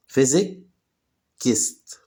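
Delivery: Physicist drawn out very slowly, each syllable apart; slow syllable drill. Shown as a demonstration. Teacher slowly drills Physicist for Arabic-speaking learners. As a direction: stretch Physicist out slowly for students. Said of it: "teacher drills the word slowly".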